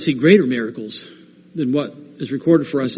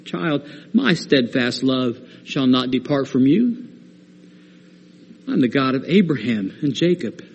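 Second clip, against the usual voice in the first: softer, lower, unhurried reassurance; gentle; 3 semitones lower, 4 dB quieter than usual. Acted. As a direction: speak it tenderly as a father to his child. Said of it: "he gently reminds us one more time".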